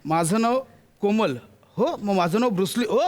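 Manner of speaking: ordinary talk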